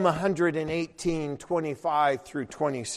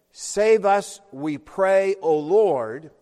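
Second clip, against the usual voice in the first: louder, ringing prayer words; emphatic quote; 3 semitones higher, 6 dB louder, slower than usual. Acted. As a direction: call the phrase out. Quoting the phrase aloud.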